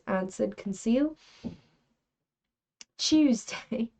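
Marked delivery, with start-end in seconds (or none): 3.0-3.9 playful British pronunciation; British accent. Pretend. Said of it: "for some British behavior".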